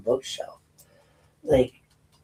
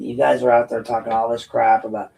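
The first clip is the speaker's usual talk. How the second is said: ordinary talk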